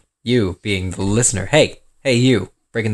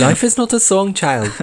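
1 mock Baelish; 9 semitones higher than usual. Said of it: "Baelish in, like, an Asian voice".

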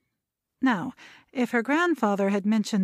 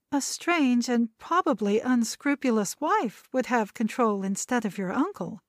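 brisk; 3 semitones higher than usual. Acted. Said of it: "Sandra interrupted briskly".

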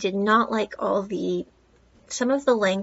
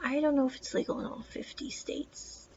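unsure aside; 2 semitones higher, 7 dB quieter than usual. Real, not acted. Unsure aside about marijuana laws.

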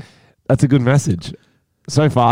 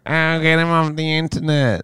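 put-on overreaction in a raised pitch; mock outrage; 6 semitones higher, 4 dB quieter than usual. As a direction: imitate someone making a fuss, pitched up. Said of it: "You don't have to be like".

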